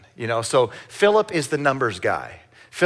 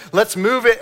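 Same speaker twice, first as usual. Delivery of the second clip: impatient; 9 semitones higher, 4 dB louder than usual. Retold or imitated. Kids pushing to leave.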